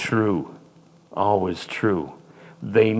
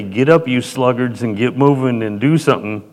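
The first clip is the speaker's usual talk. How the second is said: mock harsh command; 3 semitones higher, 5 dB louder than usual. Mock harsh master rousing sluggards.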